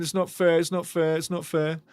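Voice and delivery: mock crying fans. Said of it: "Ghana fans are crying".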